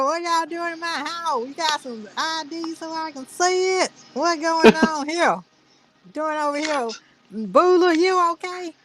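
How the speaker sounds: high fake redneck homeowner voice; redneck white guy. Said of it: "pretend like he's some redneck white guy".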